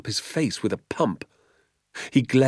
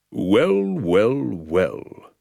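pompous policeman; 4 dB louder, much slower than usual. A narrator's reading. Village sergeant arriving to judge the scene, pompously. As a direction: puff up and pronounce each well. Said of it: "said Sergeant Samways at last".

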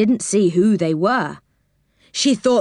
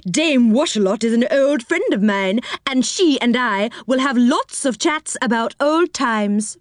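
put-on old woman voice; 4 semitones higher than usual.

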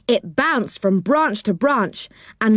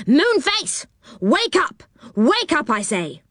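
calling to wake; 9 semitones higher than usual. Acted. Angry man calling through window.

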